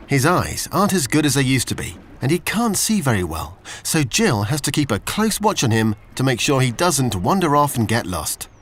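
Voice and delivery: usual speaking voice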